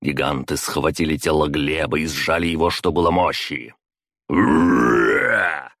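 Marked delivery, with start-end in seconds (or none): 4.3-5.7 roaring cheer as he charges in; war cry of a brawler; battle roar. A narrator's reading. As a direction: bellow it while charging. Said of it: "С рёвом влетел".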